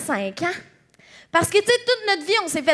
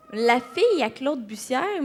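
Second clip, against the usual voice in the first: slow, lower, incredulous repeat; offended disbelief; 4 semitones lower, 4 dB quieter, slower than usual. Acted. Comedian questioning how she was introduced, offended disbelief. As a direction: question it slowly, softly taken aback.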